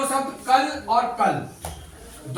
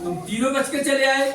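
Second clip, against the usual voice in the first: villain quote. Retold or imitated. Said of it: "कहता है".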